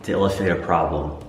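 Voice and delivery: hushed late-night whisper. Real, not acted. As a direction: whisper close to the camera, Blair Witch style. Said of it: "at night I feel like I have to whisper".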